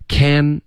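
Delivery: can drawn slowly to a held "n", tongue on the palate; clear final N. Shown as a demonstration. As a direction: finish can on a full N. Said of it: "Can 结尾的N".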